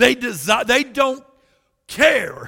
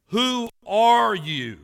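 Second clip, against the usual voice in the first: louder, slow, scornful "who are you"; sarcastic challenge; 5 dB louder, slower than usual. Retold or imitated. Pastor voicing the Pharisees' sarcastic challenge. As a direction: throw the question back as a sneer. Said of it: "anger and sarcasm".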